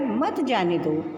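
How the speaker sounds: slow मत जाने दो as one phrase; मत weighted, attached to जाने दो; stress on मत. Shown as a demonstration. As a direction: lean on मत and run it into जाने दो. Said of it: "विराम लेने के बाद".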